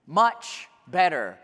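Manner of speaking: "much" stretched, slow and heavy; stress on much. Shown as a demonstration. Preacher paraphrasing Paul with weight on much. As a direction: dwell on "much" before "better". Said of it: "Maybe you would say".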